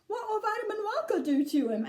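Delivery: high-pitched worried father; anxious question. A narrator's reading. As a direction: ask it with nervous concern. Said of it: "Mister T V anxiously".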